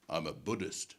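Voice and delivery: very low, hushed reply; small, low-voiced deadpan; meek, careful answer. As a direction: offer it quietly as a nervous dodge. Cautious way out of awkward question.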